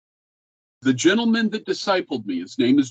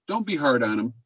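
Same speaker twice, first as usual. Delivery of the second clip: gentle repeat; 4 semitones lower than usual. Shown as a demonstration. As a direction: repeat it gently, as a kind nudge.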